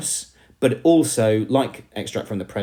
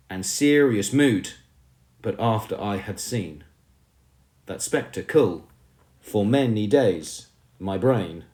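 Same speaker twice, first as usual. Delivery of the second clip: poem reading. Acted. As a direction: read each line out with weight and pauses. Reads poem lines aloud.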